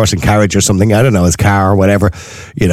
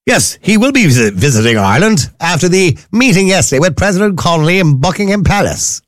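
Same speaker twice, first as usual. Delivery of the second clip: higher, put-on English accent for the royal news; posh English accent; 8 semitones higher than usual. Shown as a demonstration. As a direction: read it like a plummy English newsreader. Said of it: "Do you like my nice English accent?".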